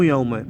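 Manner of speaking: يومه as "yawma", ending in "a"; wrong example, يومه with fatha; mistaken ending. Shown as a demonstration. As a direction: end يومه on an open vowel. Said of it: "مو".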